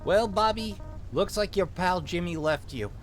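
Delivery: put-on small-town cop with a light Minnesotan accent; lightly Minnesotan lawman taking charge; vaguely Minnesotan accent. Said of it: "give him a vaguely Minnesotan accent".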